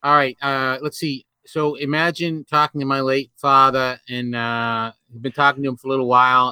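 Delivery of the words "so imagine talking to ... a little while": lightly thick New England accent. Shown as a demonstration. Host asks for New England accent, demonstrating it. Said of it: "with a thick New England accent".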